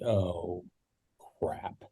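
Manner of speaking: soft, low dread on crap; dismayed oh crap. Retold or imitated. Dread as father joins call.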